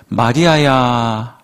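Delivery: slow, tender calling of a name; gentle, drawn-out name call. Acted. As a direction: linger lovingly on the name. Jesus calls Mary's name.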